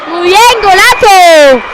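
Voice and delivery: excited commentary. Real, not acted. Goal scored.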